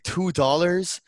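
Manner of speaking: can't believe the offer; outraged disbelief. Retold or imitated. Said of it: "we're like".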